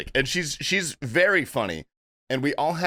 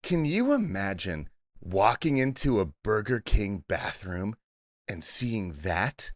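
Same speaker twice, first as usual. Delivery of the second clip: intense old New Jersey aunt, lightly imitated; measured, pointed Jersey-accented question. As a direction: stare them down in a mild Jersey accent. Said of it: "staring into my soul".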